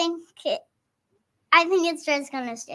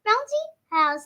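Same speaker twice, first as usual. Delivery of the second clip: Nana voice; 5 semitones higher, slower than usual. Retold or imitated. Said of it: "and then Nana said".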